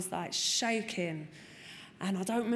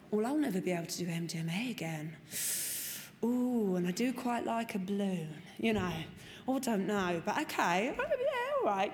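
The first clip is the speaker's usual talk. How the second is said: hammed-up reluctant okay; reluctant agreement. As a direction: talk yourself into it, wincing. Reluctantly accepting no drugs.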